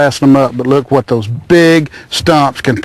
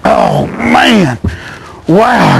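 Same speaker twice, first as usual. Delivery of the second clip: thrilled cry; 5 semitones higher, much slower than usual. Real, not acted. Landing a huge crappie.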